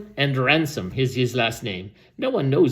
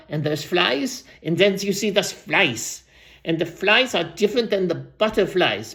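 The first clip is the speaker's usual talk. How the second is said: lightly voiced rambling old storyteller; aging storyteller. Old storyteller tells the crowd about butterflies, lightly put-on voice. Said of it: "let me switch voices".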